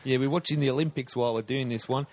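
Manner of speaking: hammed-up Aussie podcast host; put-on Australian accent. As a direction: play a laid-back Australian bloke introducing the show.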